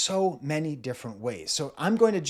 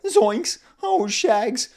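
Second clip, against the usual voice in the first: high, loud cartoon yelp; exaggerated cartoon alarm, pitched way up; Shaggy from Scooby-Doo; 8 semitones higher, 9 dB louder, much slower than usual. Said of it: "Shaggy from Scooby-Doo just to be funny".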